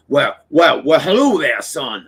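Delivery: a hint of the cartoon rooster greeting; Foghorn Leghorn. Grandpa greeting grandson, lightly done Foghorn Leghorn. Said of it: "fucking Foghorn Leghorn".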